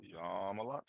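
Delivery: yamalat with the first syllable drawn out long; stretched first syllable. Shown as a demonstration. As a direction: drag out the ya in yamalat. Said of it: "you're dragging out the first syllable".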